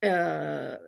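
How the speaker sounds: a short choked sob that breaks off; choked crying. Real, not acted. Overcome while recalling her ego, a brief sob. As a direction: let the tears catch in the throat.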